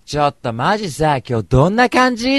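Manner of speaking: high, loud imitation of a brash girl; loud-voiced party girl. Party girl bursting into the event, loud imitation. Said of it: "やたらと声がでかい".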